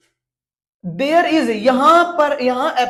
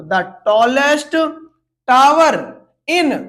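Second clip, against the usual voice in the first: slow reading; 3 dB louder, much slower than usual. Shown as a demonstration. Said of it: "reads the answer slowly".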